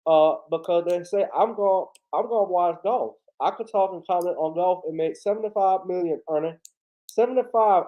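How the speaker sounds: lightly voiced Southern ex-player pundit; casual sports-panel impression, mildly aggrieved; Charles Barkley. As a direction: grumble to your co-host like a TV basketball analyst. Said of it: "Charles Barkley gonna get out of here".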